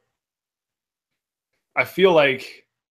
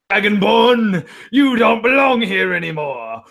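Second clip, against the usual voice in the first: booming NPC; 4 semitones higher, 5 dB louder than usual. Pretend. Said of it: "And they're like".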